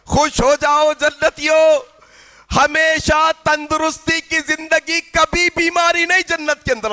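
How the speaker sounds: lightly voiced angel's proclamation, words stretched out; calling angel. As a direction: call the good news out to a crowd. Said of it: "پکارنے والا فرشتہ پکار کر کہے گا".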